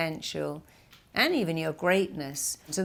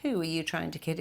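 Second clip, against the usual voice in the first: mocking little voice; 6 dB quieter than usual. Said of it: "the little voice going".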